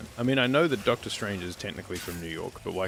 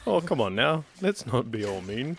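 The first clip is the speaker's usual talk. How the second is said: mock Doctor Who; 5 semitones higher than usual. Echoing Doctor Who's plea to calm down, high mock chiding. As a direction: echo a pleading, lilting Doctor.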